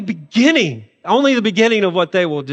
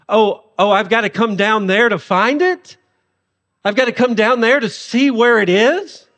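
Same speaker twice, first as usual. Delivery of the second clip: sarcastic God; 2 semitones higher than usual. Retold or imitated. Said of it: "And God is said, saying".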